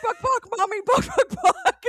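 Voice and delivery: put-on high squeaky little kid barking out words, laughing; toddler voice. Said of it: "and he goes".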